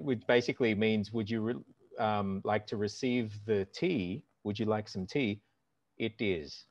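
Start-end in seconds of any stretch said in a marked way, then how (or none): 1.1-6.6 a hint of an Indian accent, a bit softer; light Indian accent. Acting out the tea exchange for a friend, light Indian accent. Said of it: "I like that you do an Indian accent".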